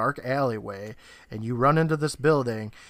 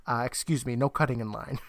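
calm; 2 semitones lower than usual. Retold or imitated. Roy to people busting in at the door, calm. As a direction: say it mildly, unruffled. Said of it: "And Roy calmly says".

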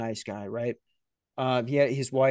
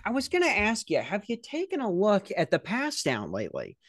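pedantic coworker; 5 semitones higher than usual. Retold or imitated. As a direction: brush off the news and pivot fussily. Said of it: "the guy goes".

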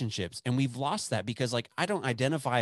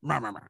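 grumpy grumble; faster than usual. Retold or imitated. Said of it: "I was all grumpy".

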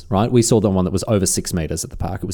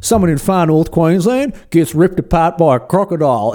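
higher, louder mock outrage; indignant politician; 7 semitones higher, 5 dB louder than usual. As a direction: rant like an outraged local MP. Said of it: "He goes".

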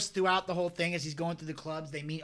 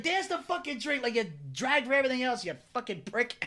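Joe Pesci; 5 semitones higher than usual. Retold or imitated. Storyteller plays Pesci yelling at Spider, higher half-strength mock yell. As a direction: imitate a mobster berating a waiter, pitched up. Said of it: "he's, like, yelling at Spider".

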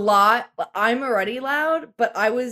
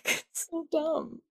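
Daffy Duck voice; 7 semitones higher, 9 dB quieter, slower than usual. Retold or imitated. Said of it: "Daffy Duck".

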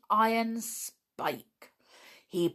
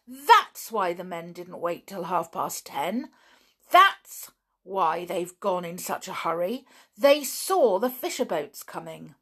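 excited; 4 dB louder than usual. Acted. George explaining excitedly.

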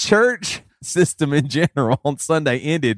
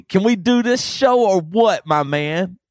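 upbeat youth pastor. Acted. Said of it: "you get to do the youth pastor voice".

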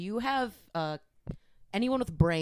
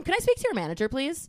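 Karen demanding; 6 semitones higher, faster than usual. Acted. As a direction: ask for the manager like a classic Karen. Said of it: "impression of a Karen".

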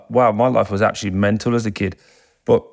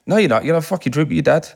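higher, quickening imitation of a pushy father; insistent dad; 6 semitones higher, faster than usual. Dad orders son to stay for a drink, insistent. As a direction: overrule him, pitched up and pressing. Dad refuses to let him leave.

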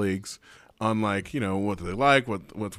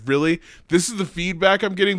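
indignant; 6 semitones higher, 4 dB louder than usual. Retold or imitated. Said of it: "I was so angry".

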